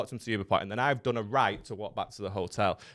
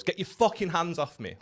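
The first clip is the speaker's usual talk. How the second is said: mock yell; 7 semitones higher than usual. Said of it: "this girl just goes".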